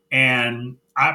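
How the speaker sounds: usual speaking voice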